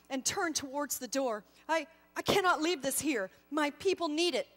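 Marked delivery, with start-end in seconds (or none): 1.7-4.5 louder, halting, insistent refusal; clinging to his spear and refusing; stubborn protest. Acted. Warrior refuses to leave spear.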